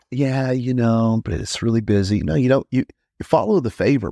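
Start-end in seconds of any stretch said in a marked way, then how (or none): 0.1-2.2 mock reluctance. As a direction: stall like you're making a polite excuse. Mocking a reluctant excuse.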